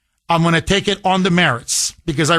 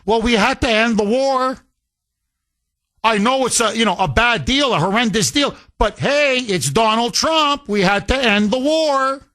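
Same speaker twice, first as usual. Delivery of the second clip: Democrat voice; 5 semitones higher than usual. Retold or imitated. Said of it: "the way they're gonna justify it is".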